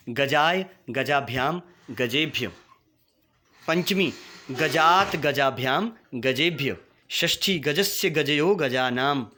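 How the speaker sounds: each form called out separately, with pauses between; declension recitation. Shown as a demonstration. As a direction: chant the forms for pupils to repeat. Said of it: "इन रूपों को भी मेरे साथ आपने मिलकर बोलना है".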